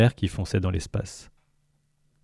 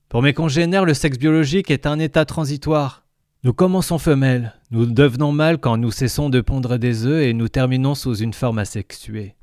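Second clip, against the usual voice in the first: gurgling tentacle alien; 5 semitones higher than usual. Acted. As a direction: speak as the jovial alien. Lintel voice.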